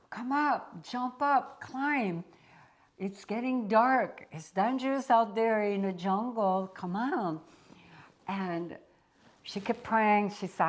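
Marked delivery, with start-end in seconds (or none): 0.1-7.4 high, loud urgent call; calling from above. Retold or imitated. Rescuer shouting down from the helicopter, loud and urgent. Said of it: "that voice from far away".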